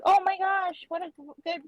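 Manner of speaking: high, gushing praise for a pet bird; mock-delighted treat-giving voice; acted gushing praise. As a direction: make a fuss over a clever bird. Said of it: "and then you're like".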